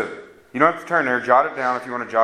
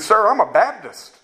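higher, defensive voice of a stranger; mimicking a man arguing at a bus station; 6 semitones higher than usual. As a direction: brush off the preacher, a bit pleased with himself. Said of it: "He said".

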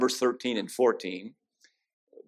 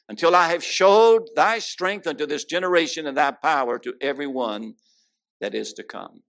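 scripture reading; 2 semitones higher than usual. Acted. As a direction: proclaim the verses from the pulpit. Reads Psalm aloud.

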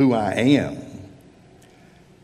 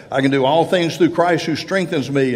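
higher-pitched, pumped-up verse quoting; mock misquoting; 5 semitones higher, 4 dB louder, faster than usual. Preacher mimicking people who misuse that verse, higher and emphatic. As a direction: imitate someone overclaiming with a verse, pitched up. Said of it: "You can't quote that verse and say".

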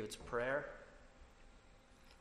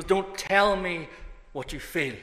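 preacher's cry; 5 semitones higher, 6 dB louder than usual. Retold or imitated. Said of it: "he goes".

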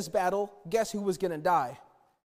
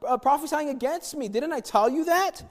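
higher, petulant complaining king; whiny giant baby; 5 semitones higher than usual. Retold or imitated. King Ahab complaining to Jehoshaphat about Micaiah, whiny. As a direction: whine it like a sulking child. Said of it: "He's a baby again".

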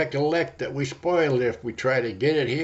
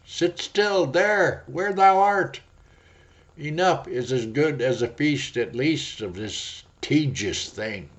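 a higher, slow coaxing Sloth; lightly drawn-out lazy plea; 4 semitones higher, 3 dB louder than usual. Acted. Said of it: "Sloth says".

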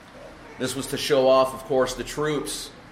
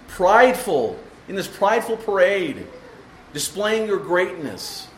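impassioned Paul; 4 semitones higher than usual. Retold or imitated. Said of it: "Paul says".

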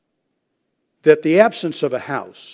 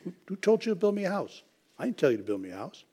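high, fast, incredulous challenge; indignant God; 5 semitones higher, 9 dB quieter, faster than usual. Acted. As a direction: fire the question at David in disbelief. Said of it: "not at all grateful".

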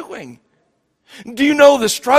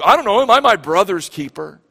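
snarky sarcastic; 2 semitones lower than usual. Retold or imitated. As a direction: toss it off like a smart-aleck kid. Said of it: "We laugh about that".

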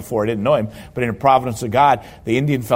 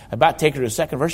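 fast repeat; much faster than usual. Shown as a demonstration. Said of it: "repeats the line faster".

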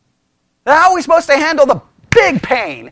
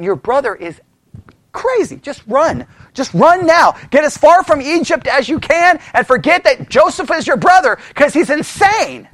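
urgent warning; 3 semitones higher than usual. Pretend. Onlooker urging brothers to flee.

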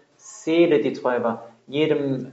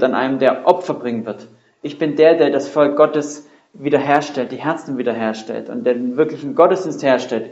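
louder, ringing proclamation as Jesus; Jesus proclaiming; 4 dB louder than usual. Acted. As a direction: announce yourself as the promised king, voice rising. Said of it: "Jesus tritt hier hinein und sagt".

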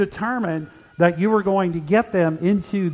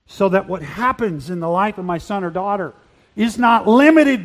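prayer; 2 semitones higher, 3 dB louder than usual. Acted.

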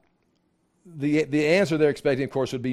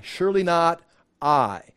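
usual speaking voice

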